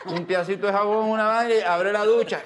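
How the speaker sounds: chuckling through the telling; amused retelling with laughter; laughing. Real, not acted. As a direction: laugh while recounting the shower. Laughing while telling shower story.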